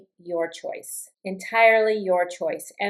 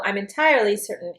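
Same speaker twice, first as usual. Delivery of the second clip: "entirely" stressed, firm falling tune, quick; confident emphasis; faster than usual. Shown as a demonstration. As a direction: say it with complete confidence. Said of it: "is complete confidence".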